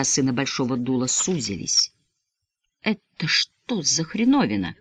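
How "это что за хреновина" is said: slow, hoarse and quiet; hoarse croak. Acted. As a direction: croak it out slowly. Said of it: "прохрипел он".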